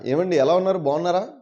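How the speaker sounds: neutral, polite Guntur Telugu greeting; lightly demonstrated Guntur accent. Shown as a demonstration. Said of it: "గుంటూరులో మీరు చక్కగా ఏ ఏ యాన్సెంట్ ఉండదు".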